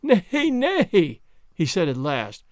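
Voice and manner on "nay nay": much higher, breathless with laughter; laughing. Acted. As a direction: laugh it off the crowd. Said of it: "He laughed until his sides ached".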